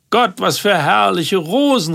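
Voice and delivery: high, delighted cry over the roses; delighted exclamation. A narrator's reading. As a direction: gush at the flowers. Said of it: "rief Paola".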